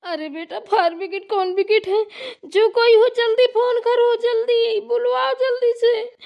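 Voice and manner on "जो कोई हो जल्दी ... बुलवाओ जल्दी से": crying. Acted. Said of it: "माँ जी, आप रोइए मत".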